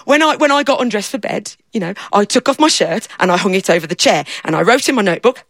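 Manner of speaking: a lightly voiced simple fella, eager and proud; daft fella. Storyteller playing the fella who lost himself, lightly voiced. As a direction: speak as the muddled daft man, pleased with himself.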